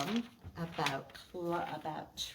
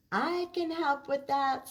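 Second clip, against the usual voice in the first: higher, louder helpful voice; higher, louder eager offer; Emma eager; 7 semitones higher, 6 dB louder than usual. Acted. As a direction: offer to help brightly. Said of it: "said Emma".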